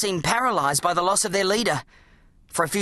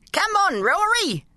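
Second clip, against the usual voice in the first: muffled; 13 semitones higher, slower than usual. A narrator's reading. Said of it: "said a muffled voice".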